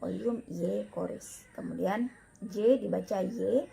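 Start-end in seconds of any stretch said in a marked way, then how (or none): 0.0-1.4 "Oleum Y coris" with a ye glide for the written ie; Latin reading demo. Shown as a demonstration. Teacher modelling the correct reading, "Y coris" pronounced ye-koris. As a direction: say "Y coris" as ye-KO-ris.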